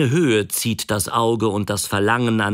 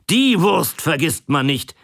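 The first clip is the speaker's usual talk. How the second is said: exclaimed; 7 semitones higher than usual. Acted. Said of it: "rief er".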